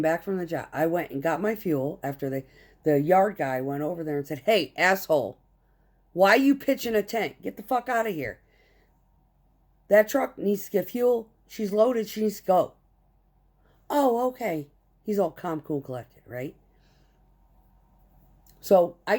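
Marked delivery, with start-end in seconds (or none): 4.4-12.7 raised, higher, scolding; retold chewing out. Yard guy tells the loafing driver to move, angry. 13.9-14.7 high, dopey, drawn-out oh okay; mocking dumb reply. Lazy driver answers the yard guy, mock-clueless.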